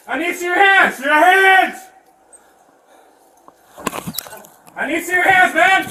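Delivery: urgent yelled police command; shouting orders over battle. Real, not acted. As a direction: shout it at someone who won't comply. Officer yelling at wounded suspect.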